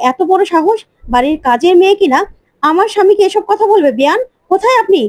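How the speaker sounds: indignant mother calling for her in-law; outraged mother. Acted.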